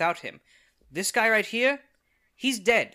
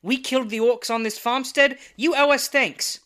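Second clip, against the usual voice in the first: louder, higher furious yell; angry yelling; 7 semitones higher, 10 dB louder than usual. Acted. Bradley Copper yelling at the ungrateful rancher, furious. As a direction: shout him down, indignant.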